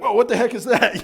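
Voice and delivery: high, loud, laughing amazement; amazed Grinch. Retold or imitated. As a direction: gasp at it like the Grinch. Grinch discovering his heart.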